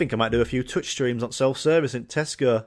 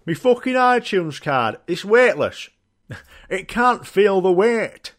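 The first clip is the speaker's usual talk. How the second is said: laughing; 5 semitones higher, 3 dB louder, slower than usual. Retold or imitated. Customer answering staff, laughing.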